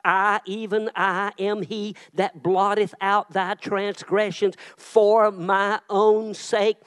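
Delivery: slow, deliberate recitation; scripture reading. Shown as a demonstration. Pastor reading Isaiah to the congregation, slow and solemn. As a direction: read it out solemnly. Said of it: "this verse in Isaiah".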